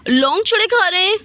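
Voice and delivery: can't believe they're still eating; shocked disbelief. Acted.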